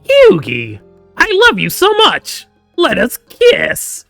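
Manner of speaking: very high, loud, drawn-out cartoon villain in love; Weevil Underwood. Gamer imagining a romance confession, squealed cartoon character voice. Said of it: "Can we romance Weevil Underwood?".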